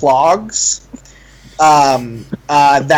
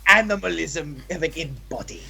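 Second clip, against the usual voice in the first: flamboyant tailor. Acted. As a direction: fuss over the client grandly. Tailor measuring client.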